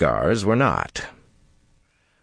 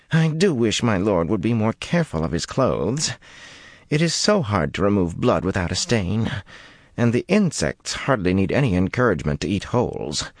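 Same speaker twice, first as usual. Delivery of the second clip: melancholy murmur; 4 semitones higher than usual. Acted. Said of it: "he murmured in melancholy tones".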